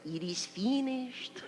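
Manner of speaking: slow, soft imitated Hispanic accent; hushed Hispanic-accented last words; young Hispanic accent. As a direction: draw it out quietly in a Hispanic accent. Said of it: "the young boy said".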